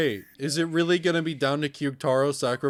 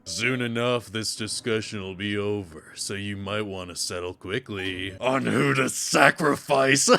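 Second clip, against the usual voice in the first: low, measured character voice; lightly voiced ominous game host; lower, unhurried warning to the players; game villain's warning; 6 semitones lower than usual. Voicing game's taunting host.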